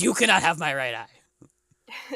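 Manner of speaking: slow, emphatic refusal; mock indignant. Bartender refusing to give up an eye, slow mock indignation. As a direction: put your foot down, lightly acted. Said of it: "he slams his fist on the counter".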